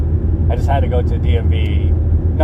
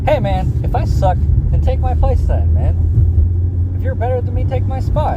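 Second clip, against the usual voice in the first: defiant retort; 11 semitones higher than usual. Shown as a demonstration. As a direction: throw it back at him, rising and fired up. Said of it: "and I'm saying it just like this".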